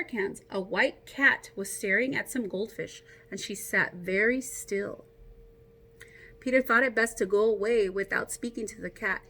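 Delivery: put-on reading a picture book aloud to kids; story narration. A narrator's reading. Teacher reading Peter Rabbit aloud to her class, storytelling. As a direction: tell the tale to a class, a little brighter.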